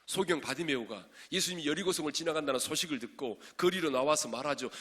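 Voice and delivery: loud pulpit storytelling; forceful preaching. Real, not acted. Preacher telling of blind Bartimaeus in the street, forceful preaching. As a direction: tell it out with driving force.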